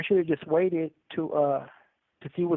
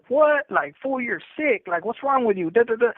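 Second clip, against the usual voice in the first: retold outrage; 7 semitones higher, 3 dB louder than usual. Friend's outraged reply on phone.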